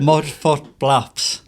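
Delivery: MUDFOOT BLAPS drawn out slowly in one go; slow, deliberate MUDFOOT BLAPS without a long break; careful enunciation. Real, not acted. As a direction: slowly work through a hard-to-say name. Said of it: "them words so hard to say".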